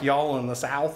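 lightly put-on Southern US accent. Shown as a demonstration. Vlogger shows how movers pick up speech, mock Southern accent. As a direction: slip into a mild Southern twang. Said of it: "move to another state and you start talking like".

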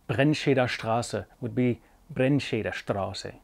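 Straße with a rolled front R; slow rolled R demo. Shown as a demonstration. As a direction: roll the R in Brennscheder Straße with the tongue tip. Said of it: "It's more of a rolled sound".

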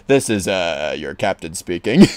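low cockpit announcement voice; airline captain. Pretend. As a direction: speak as the captain over the cabin. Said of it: "you sound like an airline captain".

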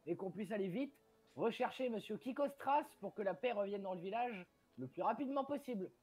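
mildly official public appeal; formal speech. Acted. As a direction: address villagers in measured, formal sentences. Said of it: "je vais faire le discours". (appel officiel aux villageois, légèrement joué)

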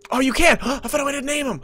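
high, loud, thrilled discovery; excited. Real, not acted. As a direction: gasp with delight. Discovering naming feature.

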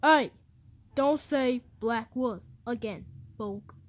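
loud, sharp "Hey!" then slow scolding; snapping at a friend who said something wrong; angry shout. Acted. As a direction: bark the warning at him.

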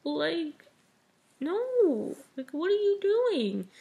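high-pitched mock scream of disbelief; shocked reader's high cry of no, no; retold scream of shock. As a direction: squeal it up high like you're reliving the shock. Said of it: "I screamed".

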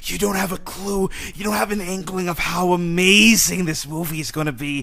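excited fan raving. Real, not acted. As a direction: gush about how amazing it is. Raving about leaked trailer.

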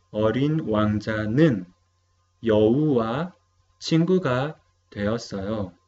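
어린 왕자는 여우와 친구가 되었어요 read quickly in native Korean; model Korean sentence. Shown as a demonstration. (lectura modelo en coreano)

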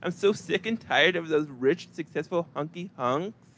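slow, drawn-out lustful sighs; mock swooning woman. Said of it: "no woman out there who like".

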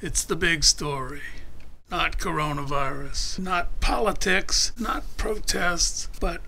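lightly put-on newsreader delivery; mock announcer. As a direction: announce it like a headline story, with pauses. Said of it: "Okay, I'm your announcer".

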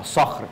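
صخر with a full emphatic s; savoured pronunciation. Shown as a demonstration. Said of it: "تستمتع بالكلمة".

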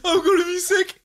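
can barely speak for laughing. Real, not acted. Laughing at failed level.

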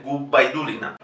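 Gubaidulina with a firm B, not V; clear B. Shown as a demonstration. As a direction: close the lips on B in Gubaidulina. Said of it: "la B no sea V".

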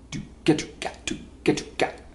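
soft rhythm syllables. Shown as a demonstration. Sounds out an offbeat rhythm.

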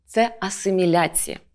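ordinary delivery

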